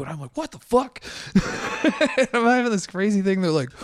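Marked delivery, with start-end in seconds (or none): 0.4-1.4 high, loud mock disbelief; shocked outburst. Retelling strangers pointing at him, shocked outburst. 1.8-3.4 high and loud, laughing through words; laughing while talking. Real, not acted. Telling a friend the wild encounter, laughing through it.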